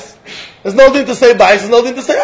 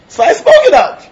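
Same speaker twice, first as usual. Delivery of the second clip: mock vow spoken out; 13 semitones higher, 4 dB louder than usual. Acting out saying a vow aloud.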